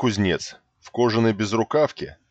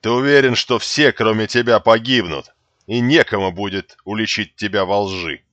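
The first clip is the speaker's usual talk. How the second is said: mocking; 5 dB louder than usual. Character's sneering challenge.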